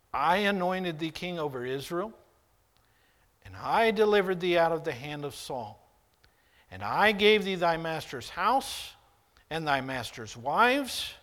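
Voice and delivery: loud, commanding voice of God. Acted. Preacher booming God's rebuke to David. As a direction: proclaim it as God rebuking a king. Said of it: "God is speaking".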